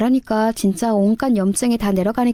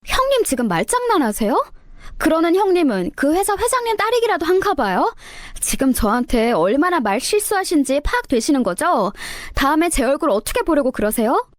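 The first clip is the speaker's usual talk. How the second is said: higher, indignant sister-in-law firing back; rapid-fire retort; 6 semitones higher than usual. Acted. Sister-in-law rattles off an offended comeback at the narrator. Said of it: "자기도 따다다 쏟아내더라고요".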